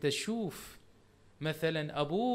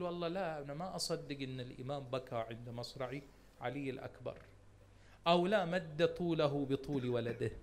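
mock doubter; 4 semitones lower, 5 dB quieter than usual. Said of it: "تقول".

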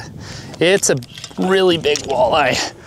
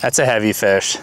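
put-on southern accent; 2 semitones lower than usual. Angler admiring a heavy fish on the line, southern accent. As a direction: lay on a bit of southern twang. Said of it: "I'm using my southern accent".

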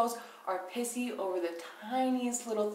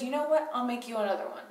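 swallowing her pride; 2 semitones higher, faster than usual. Retold or imitated. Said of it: "sucked up her pride and just says".

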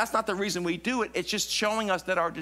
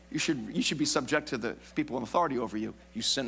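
mock stern preacher; 7 semitones lower, faster than usual. No, I'm just kidding.

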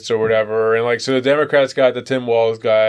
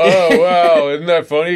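hammed-up gushing, higher and louder; fake enthusiasm; 4 semitones higher, 4 dB louder than usual. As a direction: overplay the interest like a nervous host. Mock awkward small talk.

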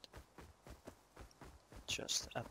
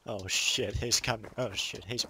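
alarmed; 7 dB louder than usual. Real, not acted. Enemy charges at the player.

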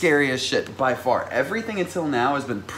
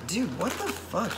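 laughing disbelief; 9 semitones higher, 6 dB quieter than usual. Real, not acted. Laughing at a gift.

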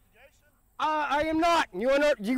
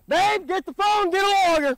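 loud urgent call to wife; calling out loudly; 4 semitones higher, 5 dB louder than usual. Real, not acted. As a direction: raise voice, call for help. Yelling at cop, calling wife.

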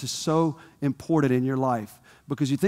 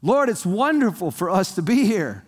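mildly excited, higher-pitched exclamation; exclaimed; 4 semitones higher than usual. Acted. Peter exclaiming to Jesus on the mountain, exclaimed. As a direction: exclaim it as an eager disciple. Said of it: "Peter exclaimed".

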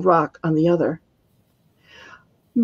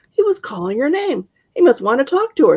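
put-on young witch; 7 semitones higher than usual. A narrator's reading.

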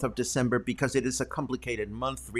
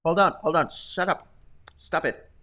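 laughing; 6 semitones higher than usual. Real, not acted. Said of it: "teary-eyed because of the laughing".

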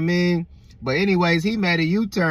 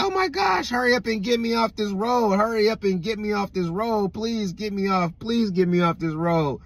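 panicked pleading; 3 semitones higher than usual. Retold or imitated. Coworker begging the driver to leave the dark road, panicked pleading. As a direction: imitate a frightened passenger begging to get away.

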